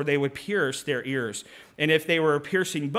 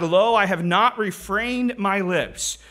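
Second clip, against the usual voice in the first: scripture proclaimed in a raised voice; projecting; 4 dB louder than usual. Acted. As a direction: declare it out to a congregation. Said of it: "he's projecting, uh, the goodness of God".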